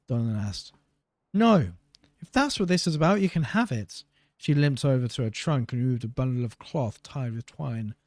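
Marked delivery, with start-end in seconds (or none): 1.3-4.0 high, loud teasing greeting; mocking captain. Pirate captain mocking the guard, high teasing voice. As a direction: tease him sweetly.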